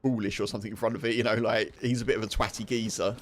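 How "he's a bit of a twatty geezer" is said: chuckling through the words; laughing insult. Retold or imitated. Chuckling while giving a mock insult to a mate. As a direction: laugh as you tease him.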